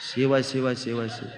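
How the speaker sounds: low, soft muttering under the breath; hushed invocation. Retold or imitated. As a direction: mutter a god's name in mock dismay. Muttered reaction in silent house. (ಮೆಲ್ಲನೆ ಶಿವನಾಮ ಗೊಣಗುವುದು)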